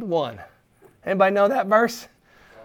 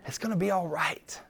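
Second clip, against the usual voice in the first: soft, sincere reassurance; encouraging; 11 dB quieter than usual. Real, not acted. Preacher encouraging people going through hard times, softly reassuring. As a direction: speak softly to comfort them. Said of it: "I wanna encourage you guys".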